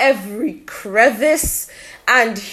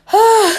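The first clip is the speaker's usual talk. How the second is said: high puffed-out sigh; breathless sigh; 9 semitones higher, 5 dB louder than usual. Real, not acted. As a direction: let out a winded sigh. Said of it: "I'm a little out of breath".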